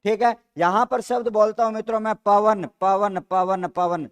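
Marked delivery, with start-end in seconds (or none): 2.8-4.1 पवन repeated slowly to bring out the अव sound; teacher repeating पवन to show the अव sound. Shown as a demonstration. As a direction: say पवन again and again so the अव in the middle is heard. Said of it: "sir अव की ध्वनि आ रही है".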